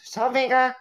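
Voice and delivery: "Sore finger" run together, pitched high; high, quick "Sore finger" as one word; salt-and-vinegar soundalike. Shown as a demonstration. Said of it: "And it sounds like".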